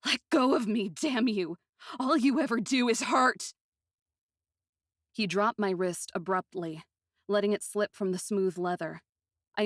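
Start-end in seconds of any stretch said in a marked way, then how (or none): 0.1-3.5 high, loud, pained shout; frightened shout. Acted. Aiko shouting at Tango to let go of her wrist. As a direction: yell to break free.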